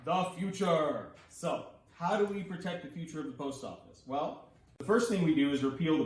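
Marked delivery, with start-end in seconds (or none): 0.1-1.1 mock-dramatic. Drawn-out mock title reveal.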